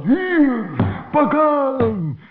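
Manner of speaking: high, drawn-out taunt with each blow; hollow spirit striking out; attacking cry. Acted. Spirit hits witch on head. (uithalende aanvalskreet)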